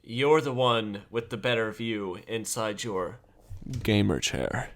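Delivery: slow, stately request with long pauses; grand character voice. Acted. Player asks Opalia to be guide, slow stately character voice. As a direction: speak formally, phrase by phrase. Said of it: "developed this whole character".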